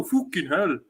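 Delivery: mock accent that comes out Scandinavian; odd, Scandinavian-tinged accent; Scandinavian-sounding accent. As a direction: imitate a botched British accent, sounding Scandinavian. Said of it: "someone from Scandinavia".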